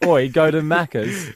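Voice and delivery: slow mock Aussie accent; drawn-out Aussie-accented command. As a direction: lay on an Aussie accent, unhurried. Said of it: "in an Aussie accent".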